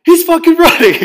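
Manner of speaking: shrieking through laughter at the escape; laughing disbelief. Retold or imitated. Garrett spotting his friend bolting from the buffet, laughing shriek. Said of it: "look at Garrett's face and goes".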